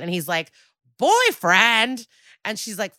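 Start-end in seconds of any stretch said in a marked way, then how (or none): 1.0-2.1 high, incredulous echo; mock-shocked questioning repeat; shocked disbelief. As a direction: blurt it back higher, as a startled question. Retold shocked reaction of Josh.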